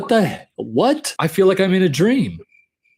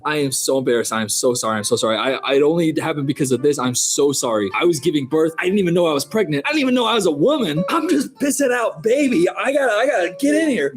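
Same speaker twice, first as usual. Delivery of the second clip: mock embarrassed apology. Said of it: "energy other than".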